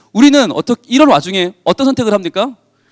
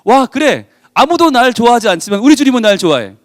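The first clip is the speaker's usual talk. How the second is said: excited believer; 3 semitones higher than usual. Acted. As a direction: build into a giddy hallelujah. Believer's excited prayer acted.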